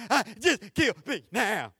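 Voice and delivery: laughing, drawn-out plea to die; mock despairing groan. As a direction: ham up a weary wish to die. Preacher voicing Jonah's despair.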